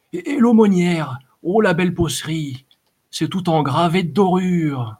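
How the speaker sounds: high, mock-dainty coarse voices cooing over finery; gushing brigands. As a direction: ham up thugs playing dressmakers. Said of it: "voix pâteuses et les timbres éraillés". (brigands qui minaudent, voix haute et affectée)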